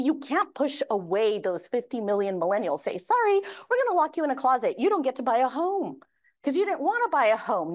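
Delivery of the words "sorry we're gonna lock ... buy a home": mock dismissive voice. Mock voicing someone shutting out buyers.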